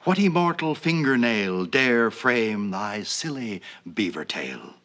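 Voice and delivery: solemn, measured poetry reading; mock poem recital. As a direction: recite it like a grand old poem, slowing on thy silly.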